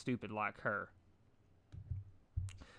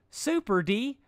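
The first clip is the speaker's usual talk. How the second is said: far higher and louder, giddy; high bubbly Pinkie voice; 12 semitones higher, 8 dB louder, slower than usual. A narrator's reading. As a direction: squeal it with glee.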